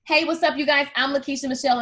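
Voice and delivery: peppy host greeting sinking into a gentle pep talk; Instagram hello video voice; demo video intro. Shown as a demonstration. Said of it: "So watch this".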